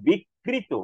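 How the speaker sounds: বিক্রীত-like "bik-krito" for বিকৃত; forceful doubled pronunciation. Shown as a demonstration. Teacher contrasts the ra-phala word, doubled pronunciation. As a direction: split বিকৃত hard on a doubled k. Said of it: "কারণ সেটা র ফলা আছে".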